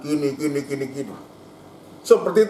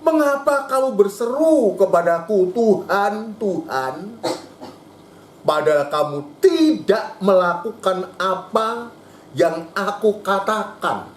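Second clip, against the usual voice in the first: God's lament; 4 semitones higher than usual. Acted. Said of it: "Keluh kesah Tuhan ini".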